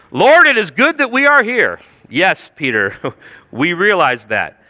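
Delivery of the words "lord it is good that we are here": high, earnest proclamation; stating the obvious. Acted. Preacher voicing Peter stating the obvious to Jesus, earnest proclamation. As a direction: declare it grandly, as if it were news. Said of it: "the world's most o-, Captain Obvious statement here".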